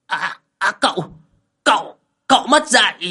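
high, loud sputtering protest; an insulted old man sputters at the young master; indignant outburst. Acted. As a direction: jump up offended and splutter at him. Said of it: "Lão nhảy dựng lên".

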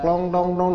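slow, mock bell clanking; imitated cowbell. Teacher mimicking a cow's bell as it walks, imitated cowbell. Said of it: "kelinting, kelinting gitu".

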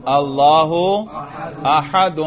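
"اللہ احد" with both endings sounded, Allaahu ahadun; اعراب سمیت. Shown as a demonstration. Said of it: "اب اعراب سمیت اس کو روانی سے پڑھو". ("اللہ احد" کو اللّاہُ اَحَدُن پڑھیں)

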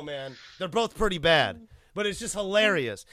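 normal talking voice

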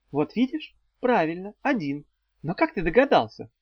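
playful triumph in a female character voice; triumphant. A narrator's reading. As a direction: crow lightly over being proved right. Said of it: "восторжествовала ведьмочка".

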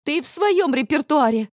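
выше и громче, язвительно; брось это зло. A narrator's reading. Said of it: "зло сказала я". (дочь зло упрекает мать)

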